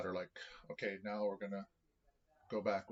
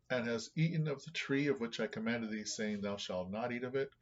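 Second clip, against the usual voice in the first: emphatic Bible reading, pitched up at first; scripture reading; 3 semitones higher, 4 dB louder than usual. Acted. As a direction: read the commandment out firmly. Reads scripture aloud.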